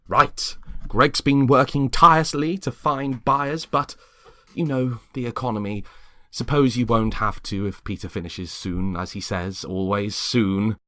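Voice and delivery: a sweetly nosy suburban wife, pitched high; chirpy neighbour Lexi. Acted. Lexi chiding James for skipping the party, high and sugary. Lexi gossips about husband's work.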